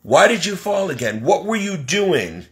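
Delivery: mild exasperated scolding; retold mad scolding. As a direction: demand answers, a touch annoyed. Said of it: "get mad and say".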